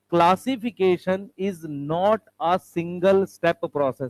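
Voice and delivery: very slow, measured English reading; careful repetition. Shown as a demonstration. Teacher repeats the textbook line for students, slow careful repetition. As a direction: repeat it word by word, unhurried. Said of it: "तो मैं repeat करूंगा".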